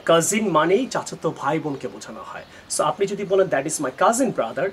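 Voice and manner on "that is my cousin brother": slow wrong example. Shown as a demonstration. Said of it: "you shouldn't say that".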